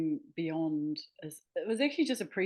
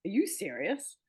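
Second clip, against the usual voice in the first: imitated disbelief, pitch jumping up; mock-incredulous question, lifted high at the end; retold incredulous editor; 6 semitones higher than usual. Author quoting tough editor's reaction to draft, mock incredulous. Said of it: "but she was like".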